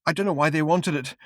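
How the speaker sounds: high, broken drugged man; frail, drugged voice; drugged witness. Acted. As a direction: stammer it out dazed and weepy. Drugged man's held voice.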